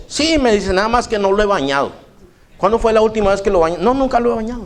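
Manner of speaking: a hint of a careless owner.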